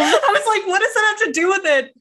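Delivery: high, loud quote through laughter; laughing. Real, not acted. Mocking her own confusion to a friend, laughing. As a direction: laugh your way through the question.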